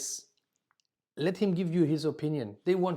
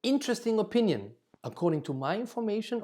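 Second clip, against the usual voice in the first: higher, quick friendly redirect; polite interest; 6 semitones higher, faster than usual. Shown as a demonstration. Teacher modelling how to answer a wrong customer, higher and friendly. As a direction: sound intrigued, then steer to the facts.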